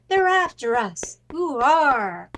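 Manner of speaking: high, loud triumphant shout while fleeing; excited escape cry. Acted. Captain flees the chasing pirates with the pants, loud triumphant cheer. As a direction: cheer as you run for it.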